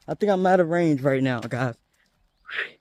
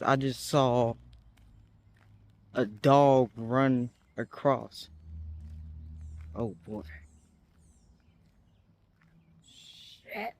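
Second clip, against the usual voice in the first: much softer, slow, wary; real nervous hush; 6 semitones lower, 6 dB quieter, slower than usual. Real, not acted. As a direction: keep your voice down near a dog. Nervous about loose dog.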